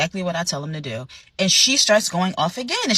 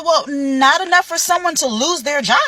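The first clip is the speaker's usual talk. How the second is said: incredulous retort; 8 semitones higher, 4 dB louder than usual. Retold or imitated. Manager's retort.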